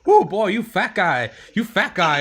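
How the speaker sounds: high, slow teasing whoop; teasing friend. Retold or imitated. Friend mocking his weight, high slow taunt. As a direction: drag out the tease up high. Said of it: "He was like".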